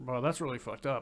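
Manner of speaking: ordinary delivery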